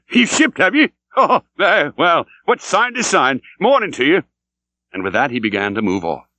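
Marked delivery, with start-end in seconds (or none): 0.1-4.2 high, louder, strange laughing voice; cackling stranger. A narrator's reading. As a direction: cackle like a mad prophet. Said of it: "laughed the stranger".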